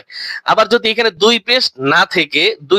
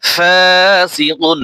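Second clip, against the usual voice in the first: ফাসিকুন said very slowly, the first vowel held one alif long; slow Quranic spelling blend; drawn-out blend; much slower than usual. Shown as a demonstration. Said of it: "এক আলিফ টান দিয়ে".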